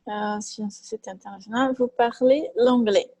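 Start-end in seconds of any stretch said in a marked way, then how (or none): 1.7-3.1 slow model phrase. Shown as a demonstration. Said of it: "teacher models French phrase".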